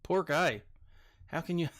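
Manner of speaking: mock sympathy, lightly done; mildly sarcastic commiseration. Real, not acted. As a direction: feign pity, breaking off into a laugh. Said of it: "I'm being sarcastic".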